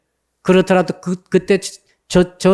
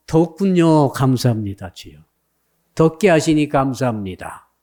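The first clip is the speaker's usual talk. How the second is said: lower, settled prayer of thanks; thankful acceptance; 4 semitones lower than usual. Shown as a demonstration. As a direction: accept it calmly, pitch dropping. Models the right, thankful response.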